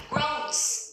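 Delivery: "Groans" with a long oh vowel; corrected pronunciation. Shown as a demonstration. Teacher corrects students who said grand, corrected pronunciation. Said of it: "lại phát âm sai".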